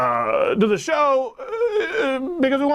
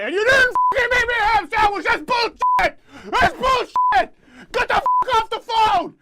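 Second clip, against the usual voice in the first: mock rage; 4 semitones higher than usual. Mock rage at prank caller.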